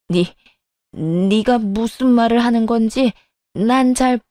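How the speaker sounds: lightly voiced rattled elder; a hint of a stern mother-in-law; evasive, demanding mother-in-law. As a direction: stammer a start, then firmly lay down terms.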